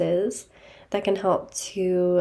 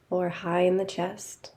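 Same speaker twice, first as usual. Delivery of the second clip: calm, even guiding voice with long pauses; guided meditation. Real, not acted. Teacher leading listeners to notice body and breath, guided meditation. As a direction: guide them gently inward, leaving space after each phrase.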